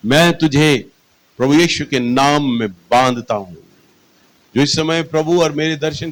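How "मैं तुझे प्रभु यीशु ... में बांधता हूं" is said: retold rebuke. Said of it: "मैंने बोला".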